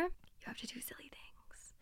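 very soft, breath-only whisper; playful whisper. Real, not acted. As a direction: whisper it like a secret tip.

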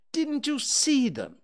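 high-pitched surprised question; a little surprised. A narrator's reading. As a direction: ask in mild disbelief, pitch lifted. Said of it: "a little surprised".

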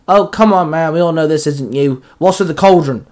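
mild exasperated bark; barked protest. Acted. Tony challenges the monster standing before them, lightly barked. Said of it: "Tony barked".

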